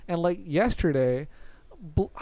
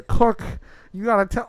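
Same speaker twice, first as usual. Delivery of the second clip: yelling; 4 semitones higher, 6 dB louder than usual. Retold or imitated. Grandpa yelling again.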